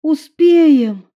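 high, loud, resolute reply; loud firm insistence. A narrator's reading. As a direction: refuse to give up. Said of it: "твёрдо сказала Евангелина".

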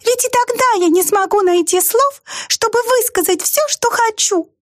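tiny mouse voicing its regret. A narrator's reading. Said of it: "сказала мышь". (высокий мышиный голосок, с грустью)

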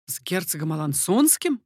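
echoing the name in mild surprise; lightly voiced startled question; surprised exclaim. A narrator's reading. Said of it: "воскликнул Ламоль".

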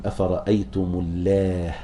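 اللات stopped as الله, ending in a breathy h; pause on h. Shown as a demonstration. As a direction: end the word اللات on h, not t. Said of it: "إذا وقف عليها الكسائي قل".

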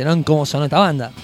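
ordinary talk

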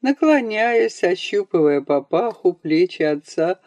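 ordinary delivery, nothing marked

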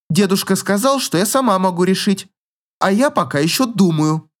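lightly voiced proud girl; huffy girl. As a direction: toss it off proudly. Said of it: "фыркнула девушка".

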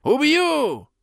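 high savage shriek; frenzied scream. Acted. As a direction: scream it with all your rage. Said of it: "закричал предводитель".

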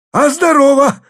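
very high, loud thundering greeting; father thundering mockingly at his daughter. A narrator's reading. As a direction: boom it down from the roof. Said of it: "загремел сверху Харлов".

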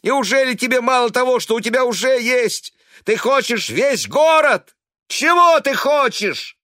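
пронзительный высокий громкий крик, медленно; визжи, срываясь; почти визг. A narrator's reading. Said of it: "Он почти визжал". (сын визжит на мать, громко и высоко)

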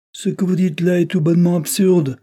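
high, loud angry interruption. A narrator's reading. Count angrily cutting off Isabel, angry. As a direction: cut her off in anger. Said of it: "interrompit le comte avec colère".

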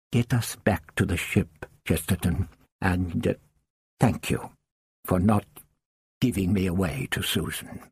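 put-on low, faltering, tired old man; weary old man. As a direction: fade as strength goes. Doctor weakening, grateful.

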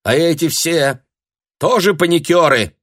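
high, loud scornful jab; heated retort. A narrator's reading. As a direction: throw it back angrily. Lyudmila arguing heatedly. (раздражённо)

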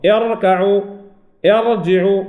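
اركعوا، ارجعوا with thick, full r; heavy ra. Shown as a demonstration. Teacher repeating the examples for students, heavy ra in both words. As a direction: keep the ra velarized in اركعوا and ارجعوا. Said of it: "تفخم راء".

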